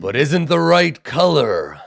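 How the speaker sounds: slow booming giant voice; a giant sizing up tiny folk; ponderous cyclops. Acted.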